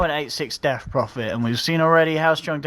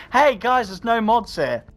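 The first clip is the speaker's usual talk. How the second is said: lightly voiced chat troublemaker, pitched up; imitated chat user; 5 semitones higher, slower than usual. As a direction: mimic a cheeky chatter slightly higher. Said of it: "someone's like".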